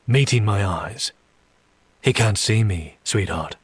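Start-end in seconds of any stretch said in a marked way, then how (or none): 2.0-3.5 calm. Acted. Demon reassuring the panicked woman, calm. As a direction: settle her down, softening on the last word. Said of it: "I say calmly".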